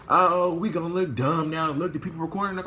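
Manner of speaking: a high, whiny put-on voice making her sound scared; mocking the opponent. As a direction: parody her backing down.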